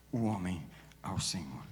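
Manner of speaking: hushed, breathless whisper; prayer fading into a whisper. Real, not acted.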